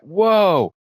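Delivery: mild whoa. Retold or imitated. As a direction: breathe out a small amazed whoa. Bobby reaching his hand through.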